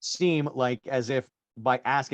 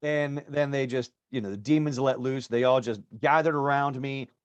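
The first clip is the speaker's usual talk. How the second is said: normal talking voice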